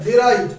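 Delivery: ডেরাইড repeated with a clear "de-raid"; correct pronunciation. Shown as a demonstration. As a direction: model ডেরাইড for students to copy. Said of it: "উচ্চারণটা কিন্তু ডিরাইড নয়".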